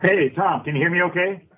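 caller on a speakerphone; thin speakerphone sound. Real, not acted. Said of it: "It sounds like you're on a speakerphone".

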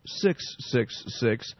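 low, slow and spooky; ominous low voice. Acted. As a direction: drag out each six darkly. Ominous number in news story.

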